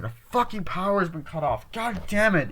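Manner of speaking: high, cursing complaint; mock exasperation. Retelling characters losing power, mock exasperation. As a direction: curse high as if fed up. Acted reaction to power cut.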